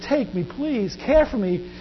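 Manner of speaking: acted helpless entreaty; begging. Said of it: "And he's begging Jesus".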